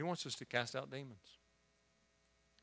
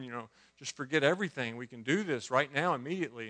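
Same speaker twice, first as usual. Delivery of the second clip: retold panic; 2 semitones higher, 6 dB louder than usual. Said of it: "I'm thinking".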